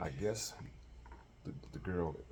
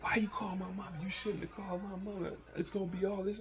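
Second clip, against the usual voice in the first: mock crying girl. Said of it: "the girl starts crying like".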